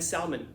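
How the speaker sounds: SALMON with the L sounded; mispronounced salmon. Acted. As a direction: casually say SALMON as "sal-mon". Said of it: "It's a mispronunciation".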